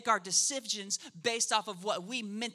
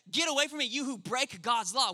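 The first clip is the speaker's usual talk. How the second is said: pastor repeats Jesus' words to the crowd, raised and emphatic; emphatic judgment; 3 semitones higher than usual. Acted. Verdict repeated to stress it.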